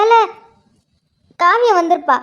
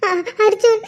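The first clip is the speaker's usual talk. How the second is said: sobbing out the name; broken by sobs, barely getting it out; crying; 3 semitones higher than usual. Acted. Wife calls to her husband, sobbing. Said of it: "ஏன் அழுதுட்டு இருக்க".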